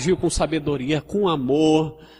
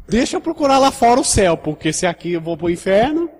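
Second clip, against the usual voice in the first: higher, rushed flustered newcomer; frightened visitor; 5 semitones higher, 4 dB louder than usual. Retold or imitated. Visitor fleeing the church, lightly voiced and flustered. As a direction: hurry out like a scared visitor. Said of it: "chegou um visitante aqui".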